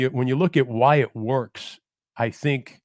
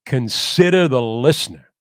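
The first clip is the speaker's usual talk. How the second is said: a louder, lightly voiced Brooklyn-tinged announcer; Marty Glickman impression; 7 dB louder than usual. Quoting his mentor's mantra to the podcast host, louder, a hint of Brooklyn baritone. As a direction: recite the old broadcaster's mantra with weight. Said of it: "he would say it in that deep baritone mix of Brooklyn and America".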